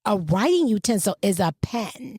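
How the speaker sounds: PEN with a clear short e; correct pen. Retold or imitated. Coworker correcting her, PEN with clear eh. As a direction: say "pen" with an open eh. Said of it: "She said".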